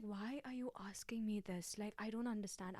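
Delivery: hushed, baffled question to the flatmate; whispered confusion. Retold or imitated. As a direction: whisper it, puzzled. Confused reply to flatmate, retold.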